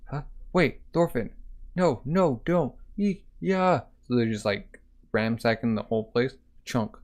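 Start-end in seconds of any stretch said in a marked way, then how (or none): 0.5-3.8 put-on higher, urgent girl's plea; pleading girl. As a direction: beg them to stop in a high girl's voice. Girl pleads, Vikings ransack boats.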